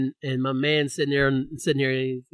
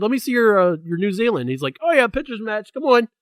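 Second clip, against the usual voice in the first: imitating the bouncer; 7 semitones higher, 4 dB louder than usual. Bouncer voiced in story.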